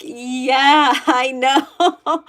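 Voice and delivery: a laughing, amused agreement; laughing back at the viewer's teasing; laughing reply. Retold or imitated. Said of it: "And I was like".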